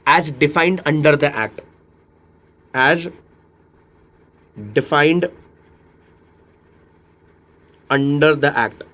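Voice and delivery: very slow with long pauses; teacher dictating a legal phrase; slow dictation. Shown as a demonstration. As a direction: dictate it word by word. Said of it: "teacher dictating slowly".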